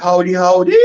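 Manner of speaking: Howdy, howdy with the last howdy long and rising; a lengthened, rising second howdy; lengthy howdy. Shown as a demonstration. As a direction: let the last howdy climb and linger. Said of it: "a lengthy part of it".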